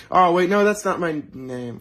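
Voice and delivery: sudden realization. Acted. Robber realizing the victim knows his name, loud. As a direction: catch the slip too late.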